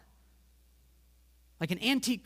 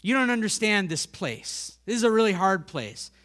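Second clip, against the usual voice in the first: louder, protesting objection; voicing the doubter's complaint, raised and insistent; objecting listener; 5 dB louder than usual. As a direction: push back like a doubtful listener. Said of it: "And you might say".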